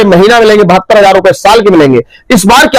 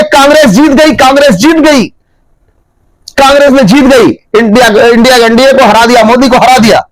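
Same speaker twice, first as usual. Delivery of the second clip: retold excited shout. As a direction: crow about the victory, hammed up a little. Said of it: "बड़ी तेज से चिल्लाया".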